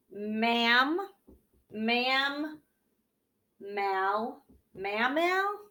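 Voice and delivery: "Ma'am, ma'am, mal" built up to "mammal"; sounding out syllables. Shown as a demonstration. Teacher to kids, sounding out mammal syllable by syllable. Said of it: "let's break it into syllables".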